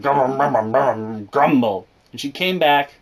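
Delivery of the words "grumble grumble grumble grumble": grumbling mom, words spoken; sulky muttered grumble; mock grumble. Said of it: "my mom was like".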